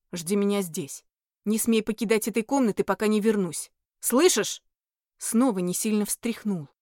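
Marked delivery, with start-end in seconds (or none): 0.1-4.6 curt demon. Acted. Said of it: "отрывисто бросил".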